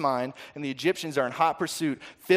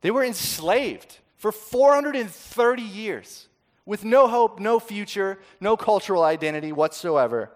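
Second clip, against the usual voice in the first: impassioned rise; 6 semitones higher, 5 dB louder than usual. Real, not acted. Preacher building on slavery's despair.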